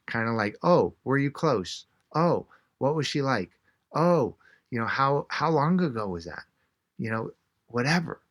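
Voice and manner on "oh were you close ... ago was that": demonstrated interest, each opener lifted higher; sympathetic interest. Shown as a demonstration. Showing how to ask a bereaved stranger, sympathetic interest.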